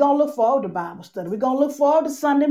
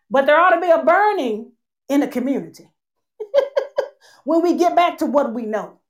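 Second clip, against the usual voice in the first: laughing; 3 semitones higher, 4 dB louder than usual. Real, not acted. Laughing mid-sermon.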